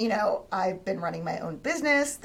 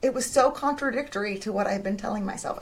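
ordinary talk

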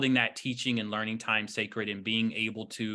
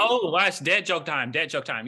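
excited announcement; 4 semitones higher, 5 dB louder than usual. Real, not acted. Announcing the dad joke.

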